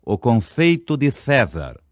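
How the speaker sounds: o confeito de César with the s and c lisped, tongue on the teeth; lisped demo. Shown as a demonstration. Teacher demonstrates the lisp defect: ciciado César. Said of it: "Por exemplo".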